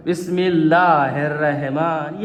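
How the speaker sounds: slow Bismillah with flat Indian-accented vowels; Indian-style recitation. Shown as a demonstration. Teacher showing pupils the wrong manner, Indian-style recitation. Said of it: "Indian انداز".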